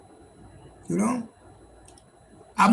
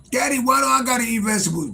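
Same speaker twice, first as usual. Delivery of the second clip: put-on higher kid's voice asking why; whiny daughter voice; 6 semitones higher than usual. Father voicing his daughter refusing vegetables, higher whiny kid voice. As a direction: play the little girl whining about vegetables. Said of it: "start telling my daughter".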